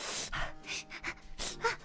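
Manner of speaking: imitated sharp breaths through held-in pain; pained gasps held in. Little girl getting her wound cleaned, imitated pained gasps. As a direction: gasp and hold the pain in, mimicking. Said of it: "holding it in".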